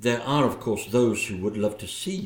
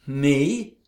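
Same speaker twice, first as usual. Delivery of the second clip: nervous laugh. Acted. Laughing off accusation of lies.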